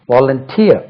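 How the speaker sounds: Volunteer stressed on "teer"; pronunciation demo. Shown as a demonstration. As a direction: model Volunteer carefully as vo-lun-TEER. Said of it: "உச்சரிப்பு கவனிங்க".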